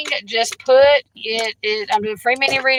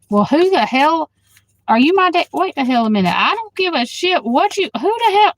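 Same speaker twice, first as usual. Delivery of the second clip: indignant outburst; 5 semitones higher than usual. Real, not acted. Angry reply to a hostile commenter.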